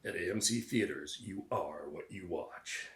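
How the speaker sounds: low, slow mock ad voice; faux-deep radio voice. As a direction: imitate a portentous cinema ad, slowing and sinking on the slogan. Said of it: "faux deep sounding bullshit".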